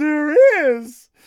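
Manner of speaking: put-on thrilled, wildly excited child's squeal, very high, loud. Retelling opening the last Christmas present as a child: imitating own excited childhood reaction. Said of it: "I reacted pretty crazy".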